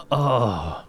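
retold groan. Fan describing watching a flawed film, soft mock groan. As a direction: groan quietly, as if pained by it. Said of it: "it just makes me groan".

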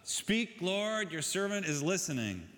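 put-on a boy answering God with eager attention; eager boy's answer. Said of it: "sits up".

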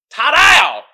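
high, loud showman's ta-da; mock ta-da. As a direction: present it with a flourish. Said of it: "Then went".

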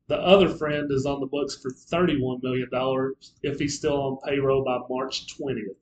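reads a fan's letter aloud on air. Shown as a demonstration. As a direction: read the letter out to the listeners. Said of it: "the person writes".

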